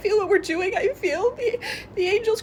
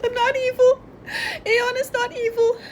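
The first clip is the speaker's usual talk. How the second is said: pleading; 5 semitones higher than usual. Real, not acted. Pleading defense, crying.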